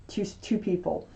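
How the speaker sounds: tripping over the word "to"; stuttering. Real, not acted. Reader stumbles mid-explanation to viewers, stuttering. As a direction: stumble and restart on a small word. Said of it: "I'm sorry I'm stuttering".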